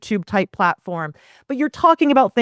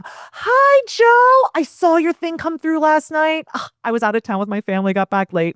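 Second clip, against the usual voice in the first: eager video hello; 7 semitones higher than usual. Shown as a demonstration. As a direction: greet him like you just can't wait. Demo video reply to prospect.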